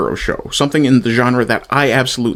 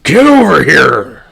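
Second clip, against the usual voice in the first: slow, loud, higher Get over here with "over" dragged out and hit hard; passionate yell; 4 semitones higher, 7 dB louder, slower than usual. Shown as a demonstration. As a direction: bellow it like you mean it, Scorpion style. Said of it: "my voiceover would at least sound like I meant it".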